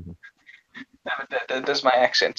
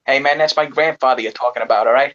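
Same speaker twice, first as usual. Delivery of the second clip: mock-offended put-on city accent; put-on American tough-guy accent; 3 dB louder than usual. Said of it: "you do a good voice actor".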